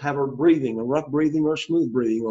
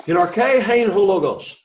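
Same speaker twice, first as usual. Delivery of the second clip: model reading; 5 semitones higher, 4 dB louder than usual. Shown as a demonstration. Teacher models Greek for the class, model reading. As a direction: model the Greek phrase, raised pitch. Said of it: "everybody say it together".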